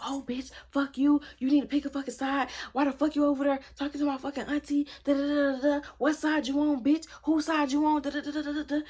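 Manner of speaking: high, imitated cussing-out; angry tirade. Zoe on the phone demanding she pick a side, angry.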